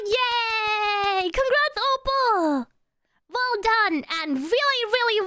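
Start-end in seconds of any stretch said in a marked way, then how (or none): 0.1-2.7 drawn-out cheer. Real, not acted. Cheering the winner.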